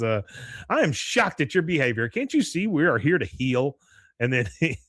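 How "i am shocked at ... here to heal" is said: raised, emphatic imitation of outrage; mock indignation. Bobby throwing his friend under the bus, mock indignation. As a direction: act shocked and reproachful, lightly hammed up. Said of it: "throws him under the bus".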